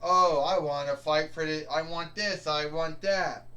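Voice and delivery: mocking whine, loud on each oh; whining like a spoiled wrestler. Boss mocking the roster's complaints in a whiny voice. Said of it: "I am sick of your bitching and your ranting".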